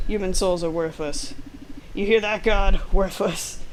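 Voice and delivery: sinister rant rising to a yell at God; lightly voiced Devon. Devon scorning human souls to the player, sinister. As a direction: sneer the word worthless.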